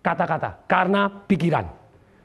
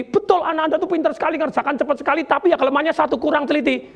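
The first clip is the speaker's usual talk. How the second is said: higher-pitched voice of a teacher justifying herself; explaining teacher; 6 semitones higher, faster than usual. Retold or imitated. Teacher answers a parent about the child, explaining.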